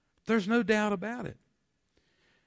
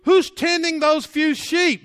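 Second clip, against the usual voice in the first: mocking questioner; 9 semitones higher, 8 dB louder, slower than usual. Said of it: "and they said".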